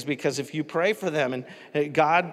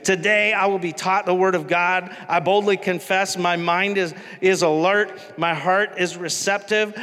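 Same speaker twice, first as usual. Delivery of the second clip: Joel Osteen; 3 semitones higher than usual. Retold or imitated. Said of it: "kinda got this high-pitched voice".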